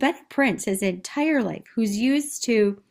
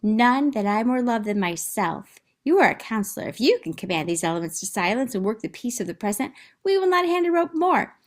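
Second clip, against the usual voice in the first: reading the bosun; faster than usual. Acted. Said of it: "look at the bosun. His lines here".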